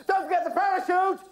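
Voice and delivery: loud, very high urgent scream; falling scream. A narrator's reading. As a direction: scream it while plummeting away. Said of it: "screamed the accelerating Ginger".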